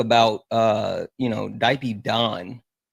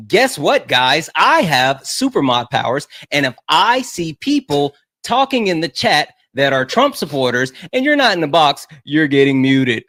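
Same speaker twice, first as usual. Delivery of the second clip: mock stern warning; 5 dB louder than usual. Mock threat to chat.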